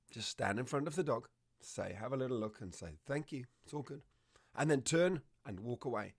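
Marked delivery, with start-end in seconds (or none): 3.0-4.0 softly spoken, easy reassurance; gentle voice. Shown as a demonstration. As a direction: quietly thank the dog and let it stand down. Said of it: "in a gentle voice".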